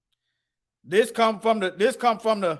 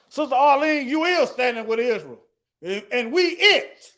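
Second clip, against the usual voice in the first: a light sketch of J J talking to Sister Arlene; a hint of J J, half-joking. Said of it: "in my J J voice".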